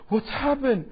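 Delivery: startled, worried cry after a gasp; a frightened wife woken at night. Retold or imitated. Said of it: "she will be very worried".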